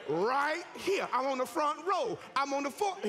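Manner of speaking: shouted calling out, laughing; mock yell. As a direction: call out where you are, waving. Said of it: "you're gonna have to yell".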